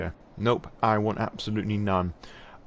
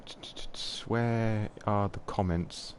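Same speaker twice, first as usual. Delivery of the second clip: whisper; 4 dB quieter than usual. Real, not acted. Muttering to himself searching screen.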